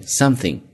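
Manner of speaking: "something" with tongue-between-teeth th; careful model of something, voiceless th. Shown as a demonstration. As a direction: say something with a clear unvoiced th. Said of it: "T H 在这是一个清辅音咬舌头".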